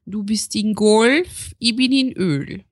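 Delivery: slow, lightly Viennese singer; a hint of the singer's Viennese Schmäh; impression of a singer. The singer teasing Ingolf Lück, lightly Viennese. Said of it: "der Sänger ... hat gesagt".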